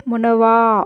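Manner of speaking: वा at the end of "मोन वा" held long; long vowel demo. Shown as a demonstration. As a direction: stretch the aa in वा. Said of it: "वा लिखा है".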